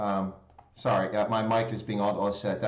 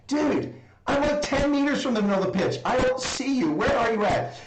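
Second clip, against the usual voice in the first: much higher, disbelieving mock complaint; exasperated inner voice; 10 semitones higher than usual. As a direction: pitch it up as if you can't believe your friend is lost. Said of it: "saying to myself".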